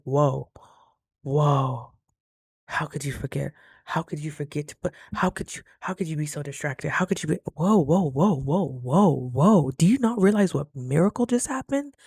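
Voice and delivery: halting whoas building into an incredulous question; stunned self-rebuke. Retold or imitated. Speaker scolding themself after a near miss, stunned. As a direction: scold yourself in mounting disbelief. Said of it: "I got a little outside of myself".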